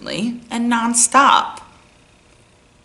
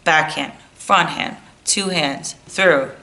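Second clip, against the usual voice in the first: rote lesson coach; 2 semitones lower than usual. Acted. Coach running every lesson by rote, bored listing. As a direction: rattle off cues by rote into blahs. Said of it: "this private lesson coach goes".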